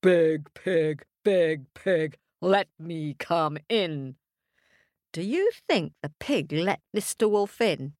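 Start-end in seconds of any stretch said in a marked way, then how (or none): 0.0-4.2 calling out. Acted. The wolf calling to Big Pig outside his door. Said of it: "called out".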